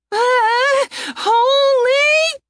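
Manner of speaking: high, loud cry mid-air; panicked cry. A narrator's reading. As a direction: yelp while thrown. Thrown through the air.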